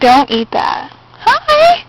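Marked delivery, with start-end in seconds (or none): 1.1-1.8 high sing-song puppy greeting. Real, not acted. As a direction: coo at the puppy. Greeting puppies.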